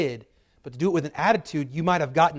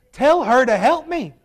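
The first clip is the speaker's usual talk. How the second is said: much louder and higher, a blunt demand; Carroll County version; 9 semitones higher, 9 dB louder than usual. Retold or imitated. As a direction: bark it as a fed-up local would. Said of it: "put it in Carroll County language for you".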